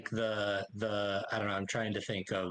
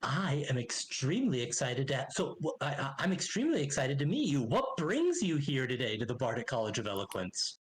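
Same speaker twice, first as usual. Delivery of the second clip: eager halfling greeter. Acted. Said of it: "steps forward and goes".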